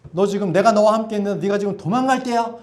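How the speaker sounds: a hint of a scolding master; mock scolding. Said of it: "이렇게 야단치지 않으셨습니다". (야단치는 듯한 가벼운 꾸중)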